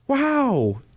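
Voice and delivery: high-pitched, forced wow and thanks; unconvincing gratitude. Retold or imitated. Boyfriend opening girlfriend's bag of presents, unconvincing gratitude. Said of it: "I'm like my dad".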